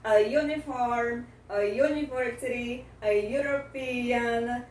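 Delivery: short 'uh' A before the Y glide of UNIFORM, UNIVERSITY, EUROPEAN; careful model list, A joined to each 'yoo' word; article before semivowel. Shown as a demonstration. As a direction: say A as 'uh', then UNIFORM with a Y onset. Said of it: "o artigo que vem antes é o a".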